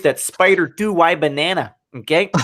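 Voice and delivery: half-hearted attempt at a coach's accent; bad Gruden accent. Host mimicking a coach for his co-host, bad accent. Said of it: "That was a bad accent".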